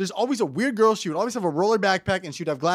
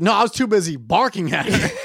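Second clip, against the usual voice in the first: laughing mock reply; 3 semitones higher, 5 dB louder than usual. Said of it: "You're like".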